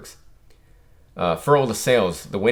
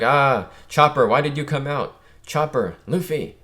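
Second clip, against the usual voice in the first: raised voice over the storm; shouting into wind; 4 semitones higher than usual. Acted. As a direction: call out against strong wind. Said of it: "He's like".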